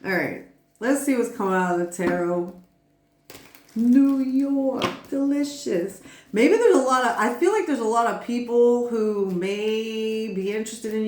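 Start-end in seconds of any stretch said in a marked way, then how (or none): 3.7-6.0 high-pitched, drawn-out TV personality impression; New York. Reader recalling a TV show personality, high playful impression. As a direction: put on a showy reality-star voice, pitched up. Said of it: "thinking about New York from that show".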